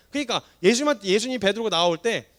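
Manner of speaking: ordinary delivery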